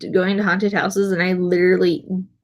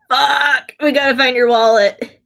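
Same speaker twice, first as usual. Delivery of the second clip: raised-pitch retold outburst of alarm; 4 semitones higher, 4 dB louder, slower than usual. Friends learning the wallet is lost, mock alarm. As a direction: blurt it out as a retold group reaction.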